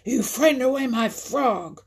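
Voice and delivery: high, loud accusation; storybook heron's outraged scream. A narrator's reading. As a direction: scream the blame as the angry heron. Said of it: "screamed Longlegs".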